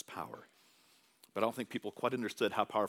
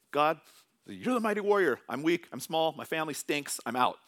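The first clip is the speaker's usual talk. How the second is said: whiny refusal; 4 semitones higher, 3 dB louder than usual. Acted. Gideon refusing God, paraphrased.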